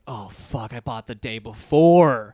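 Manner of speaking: retold dismayed realization; dawning realization. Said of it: "I realized it washed over me".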